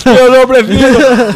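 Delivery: put-on slow, loud, high childlike voice; Bolsonaro. Host mocks Bolsonaro refusing the vaccine, childish voice. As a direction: drag out a silly child's refusal. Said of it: "conversando com uma criança".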